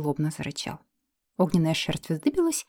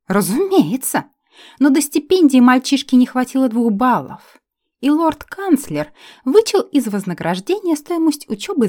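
loud, higher furious tirade; angry rant; 6 semitones higher, 8 dB louder than usual. Acted. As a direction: rant it out at full volume. Elf ranting about money.

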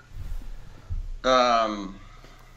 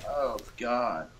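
soft breathy moan; 10 dB quieter than usual. Shown as a demonstration. Demonstrating how she says it.

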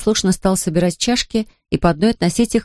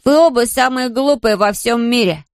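put-on higher boy's voice, mild narrated yell; 5 semitones higher than usual. A narrator's reading. Boy yells at his quarrelling siblings, mild narrated yell. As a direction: shout it at both of them, lightly voiced. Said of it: "заорал Патрик".

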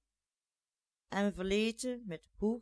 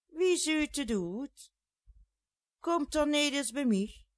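pleading; 7 semitones higher, 4 dB louder than usual. A narrator's reading. Jeanette pleading with the ladies.

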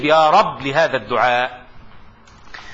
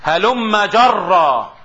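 slow dictation; 4 semitones higher, 4 dB louder, much slower than usual. Shown as a demonstration. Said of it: "dictating expression to students".

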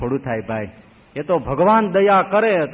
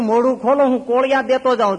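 pleading devotee; 6 semitones higher, 4 dB louder than usual. Acted. Devotee pleading to feed babaji.

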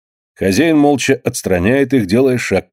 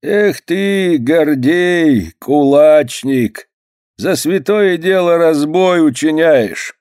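stern reproach; 7 semitones higher, much slower than usual. A narrator's reading. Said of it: "Митрич сурово качает головой".

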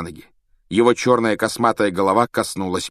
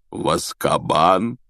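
hoarse question; 2 semitones lower, slower than usual. A narrator's reading. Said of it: "хрипло спросил Хагрид".

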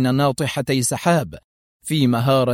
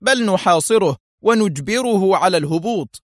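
higher, cutting command; sharp; 6 semitones higher than usual. Acted. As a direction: lean hard on بل. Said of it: "في حدة".

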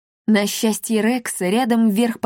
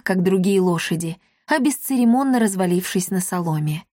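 plain reading voice

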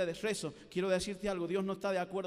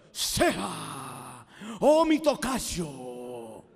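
hammed-up solemn address, very slow and louder; mock a stilted churchy greeting; pompous speech; 2 semitones lower, 8 dB louder, much slower than usual. Shown as a demonstration. Preacher mocking stilted prayer to a friend, pompous and drawn out. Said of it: "Esa estupidez, va a hablar así".

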